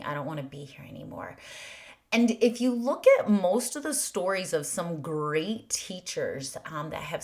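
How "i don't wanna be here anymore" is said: despairing whisper. Retold or imitated. Voicing despair.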